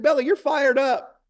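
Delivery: very high, loud, slow rallying cry; hyping up. Retold or imitated. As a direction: re-enact pumping up a scared child. Father hyping up his daughter.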